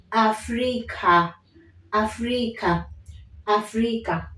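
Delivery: Africa with an open final a; Swahili Africa. Shown as a demonstration. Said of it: "It doesn't change".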